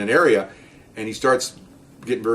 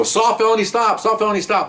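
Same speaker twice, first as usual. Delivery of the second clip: radio command; 8 semitones higher than usual. Retold or imitated.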